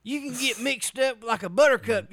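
put-on belligerent drunk. Playing redneck homeowner.

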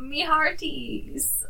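slow half-hearted pirate; weakly faked pirate drawl. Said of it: "This is my voice".

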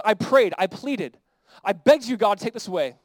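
mild acted plea, with emphatic beats; pleading. Paul praying for relief from his thorn, pleading. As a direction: beg earnestly, one short phrase at a time. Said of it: "I pleaded with the Lord".

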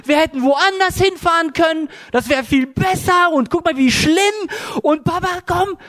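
put-on high, childlike whiny voice; imitating his daughter. Father imitating his frightened daughter in a high childlike voice. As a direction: play the scared little girl pleading with Papa.

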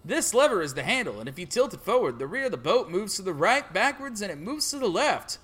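stereotype farmer impression; lightly voiced country farmer. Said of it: "farmer stereotype impression".

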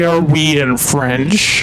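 slow, teasing echo of his words; mock him by repeating slowly. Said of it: "Did you just say".

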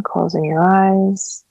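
calm meditation guide, long pauses between phrases; guided meditation. Acted. Counselor guiding listeners into breath and stillness, calm meditation voice. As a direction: ease them through each breath, leaving space after phrases.

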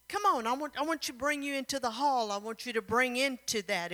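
lightly acted eager insistence; eager coaxing. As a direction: coax them along in a rush. Prince urges her into hall.

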